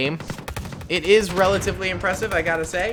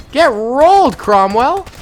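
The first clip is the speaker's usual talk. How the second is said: loud gloating jeer, higher; excited taunt; 6 semitones higher, 8 dB louder, slower than usual. Real, not acted. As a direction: rub it in to the beaten tank. Taunting a destroyed tank.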